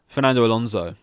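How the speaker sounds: Spanish-tinged name said with relish; mock Spanish name. Host opens the show with the driver's name, lightly Spanish. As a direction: roll out Fernando Alonso in a lightly Spanish way. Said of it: "that's how we're gonna start this".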